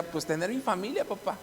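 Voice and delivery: imitating a son's soft, tranquil answer; calm, fearless. Son answering his father about his death, calm and soft. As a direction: answer softly and without fear, as the son did. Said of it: "me lo decía con una tranquilidad, sin, sin temor".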